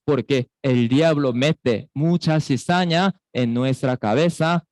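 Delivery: normal talking voice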